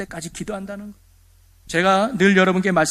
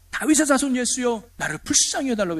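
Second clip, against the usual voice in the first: higher, urgent plea as if calling out; mock crying out; 5 semitones higher than usual. Blind beggar calling to Jesus for mercy, restrained mock cry. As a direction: imitate a beggar's cry, without full volume. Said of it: "꽥꽥 소리 지르면서".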